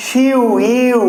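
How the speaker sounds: শিউ and ইউ each as one glide; joined diphthong. Shown as a demonstration. Teacher showing how it is pronounced, vowels joined. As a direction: run ই straight into উ in শিউ. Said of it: "একসঙ্গে উচ্চারিত হচ্ছে".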